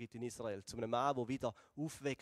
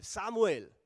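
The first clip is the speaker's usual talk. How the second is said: God's voice calling a sleeper, louder and higher; raised, ringing call of a name; 6 semitones higher, 7 dB louder, slower than usual. Retold or imitated. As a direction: call the name out loud and high. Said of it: "ruft Gott den Samuel".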